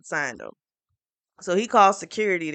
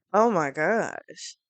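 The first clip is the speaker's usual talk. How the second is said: exasperated; much slower than usual. Real, not acted. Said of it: "But she is so".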